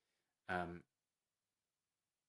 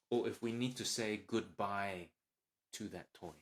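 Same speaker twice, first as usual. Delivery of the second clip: gentle coaching parent. Shown as a demonstration. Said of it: "Emotional coaching is more like this".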